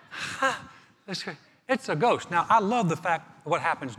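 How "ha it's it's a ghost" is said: high startled gasp, then stammered alarm; mock girlish fright. Preacher imitating screaming disciples, mock terrified stammer. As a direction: act a panicky, high-pitched fright. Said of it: "We screamed like a fourth grade girl".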